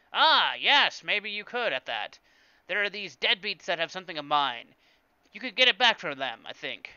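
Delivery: loud, high scheming shopkeeper warming to a deal; hammed-up alien merchant accent; Watto. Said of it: "I can't do Watto's voice".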